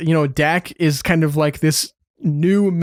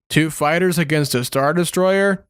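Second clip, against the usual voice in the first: a flat, wooden imitation of a terrible line reading; imitating bad line delivery. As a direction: read it as stiffly as the bad actor did. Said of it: "the delivery literally goes as follows".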